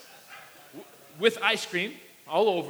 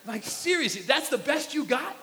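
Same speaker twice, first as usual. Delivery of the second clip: laughing disbelief; 6 semitones higher than usual. Retold or imitated. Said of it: "And I'm like".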